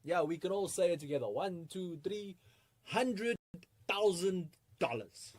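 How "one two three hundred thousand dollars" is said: drawn-out, rising group call-out, slower at the end; leading a chorus. Pretend. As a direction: count it in, then stretch each word. Leads audience in saying it together.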